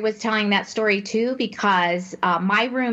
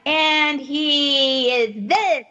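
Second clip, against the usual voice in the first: Minnie Mouse voice; 3 semitones higher, much slower than usual. Retold or imitated. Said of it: "I call it the Minnie Mouse voice".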